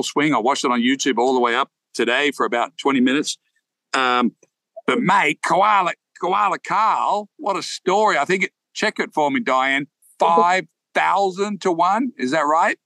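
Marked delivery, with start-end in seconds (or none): 4.9-8.2 put-on Aussie accent. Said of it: "my Aussie accent".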